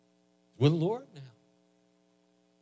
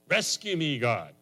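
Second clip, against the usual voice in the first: crying out; 2 semitones higher, 3 dB louder, slower than usual. Acted. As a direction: cry out to God for help. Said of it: "We can cry out a little bit better".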